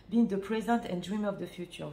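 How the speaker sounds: English with a real French accent. Real, not acted. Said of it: "j'ai encore mon accent français". (accent français en anglais)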